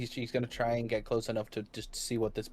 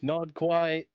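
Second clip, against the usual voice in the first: loud, higher call back over a distance; yelling back; 6 semitones higher, 5 dB louder than usual. Acted. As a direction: shout the answer back to a friend. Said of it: "I'm gonna yell back".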